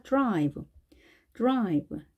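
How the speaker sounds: 드라이브 as English drive, light quick D into R; weak D. Shown as a demonstration. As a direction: soften the D of 드라이브 and glide into R. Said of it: "드 소리가 좀 약하게".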